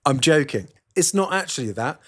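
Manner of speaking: ordinary talk, nothing marked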